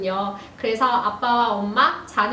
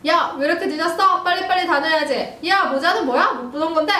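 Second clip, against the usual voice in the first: sharp, higher father's scolding; 5 semitones higher, 3 dB louder than usual. Acted. Dad scolds late daughter in a raised voice. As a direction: nag like an annoyed dad. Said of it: "아빠".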